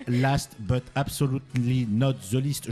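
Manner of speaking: put-on slow, clumsy English accent on the English words; bad English accent. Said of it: "j'ai un accent anglais de merde".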